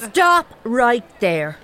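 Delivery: flustered order to stop; firm cut-off. Acted. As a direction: shut her down word by word. Cutting off embarrassing talk.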